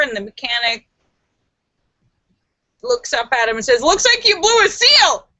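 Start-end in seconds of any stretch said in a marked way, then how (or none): 3.8-5.3 punchline. Acted. Mechanic delivers punchline.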